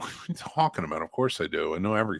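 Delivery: put-on defensive, indignant tone. Retelling an argument about anime with a friend: imitating own indignant tone. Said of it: "And I get real indignant about it".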